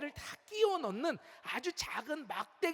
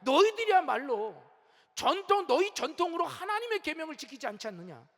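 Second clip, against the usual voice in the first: forceful rebuke. Retold or imitated. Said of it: "아주 강력하게 말씀하셔요".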